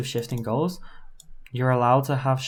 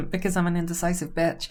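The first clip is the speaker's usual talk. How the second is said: mock fem voice; 4 semitones higher than usual. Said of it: "playful fem voice aside".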